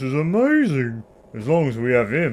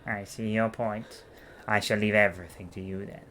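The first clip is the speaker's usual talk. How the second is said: scheming noble. Acted. Voices senator slowly.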